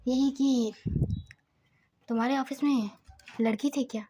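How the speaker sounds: soft, half-whispered telling; hushed storytelling. Acted. Narrator telling the grandmother's questioning of Siddharth, softly hushed.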